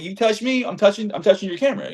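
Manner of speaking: high-pitched argumentative comeback; retold tit-for-tat retort. Fan justifying grabbing the camera, high argumentative retort. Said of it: "I'm like".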